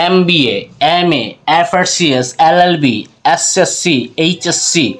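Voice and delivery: এমবিএ, এমএ, এফআরসিএস, এলএলবি, এসএসসি, এইচএসসি letter by letter, each opening on a vowel; opening vowel shown. Shown as a demonstration. Teacher listing abbreviations for viewers, এমবিএ and the rest spelled out vowel-first. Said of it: "উচ্চারণটা প্রথমেই এ এর মতো হচ্ছে".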